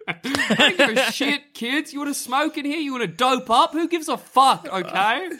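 high, lazy don't-care teacher; careless teacher voice. Acted. Teacher voice, much higher.

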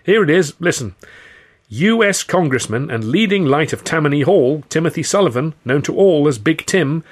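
high, loud, urgent proclamation; anxious newspaper recital; reading news aloud. A narrator's reading. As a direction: read the report out emphatically to convince them. Victim reads news aloud to thugs.

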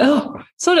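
a rough mock accent, lightly done; bad accent of a singer. Woman retelling an airport meeting with the singer, bad accent. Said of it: "doing a really bad accent of you".

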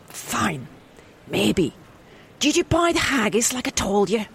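grudging Scottish wife voice; a Scottish wife grudgingly moves on to the haggis. Acted. A Scottish wife asks her husband about the haggis, grudging. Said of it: "can I do a Scottish?".

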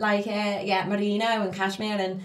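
hammed-up Scouse caller; Scouse accent. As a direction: put on a Scouse accent for a sales call. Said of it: "here's my Scouser accent".

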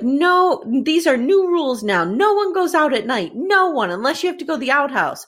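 hammed-up scolding, punching each "no"; mock angry father. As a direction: lay down the law like a cross pa. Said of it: "Charles is yelling".

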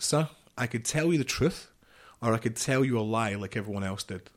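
bold, challenging tone to an officer; defiant challenge. Retold or imitated. Soldier defying his commander, bold and challenging. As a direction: square up to him with it.

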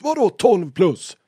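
loud, high, drawn-out incredulous retort; retold yell of disbelief; stressed snap. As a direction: imitate a stressed driver blowing up. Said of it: "han är stressad".

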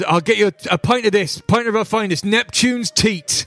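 high mock barman drawling his offer; fish barman voice. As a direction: play the fishy barkeep, lifting the pitch high.

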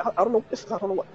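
high, rattled self-questioning; nervous panic. Retold or imitated. Retelling the dildo moment to the son, high nervous panic. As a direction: sound caught out and flustered. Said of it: "so nervous".

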